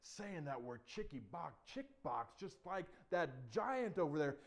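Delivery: slow, measured royal rebuke; lightly voiced stern king. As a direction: draw out the accusation ponderously. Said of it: "the king says".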